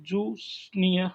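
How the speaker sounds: जूनियर slowly parted as जू, नियर; slow two-beat जूनियर; split into syllables. Shown as a demonstration. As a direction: leave a gap inside जूनियर after जू. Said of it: "इसमें दो ही syllable है".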